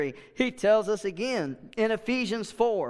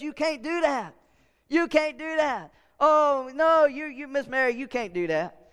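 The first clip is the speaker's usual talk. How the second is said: devil taunting. Retold or imitated. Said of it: "the devil sitting there whispering".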